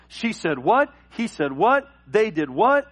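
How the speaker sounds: over-the-top offended disbelief; mock outrage. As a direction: react as if scandalized by gossip. Imitates easily upset, over-the-top Christian.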